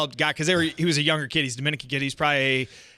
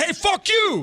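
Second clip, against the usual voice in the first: much higher mocking snap; mock fuck you; much slower than usual. Mocking friend's three-step meeting, high snap. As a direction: spit it out like a cartoon of the friend. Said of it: "It's a three-step move".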